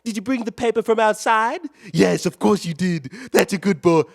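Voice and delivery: sing-song voice for a good dog; pet-talk voice. Pretend. Streamer talking to a viewer like a pet dog, sing-song. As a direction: coo at him like a pet.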